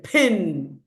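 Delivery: PIN opened with a puff of air; aspirated p. Shown as a demonstration. Teacher showing which one is aspirated, puffed p. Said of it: "One is aspirated".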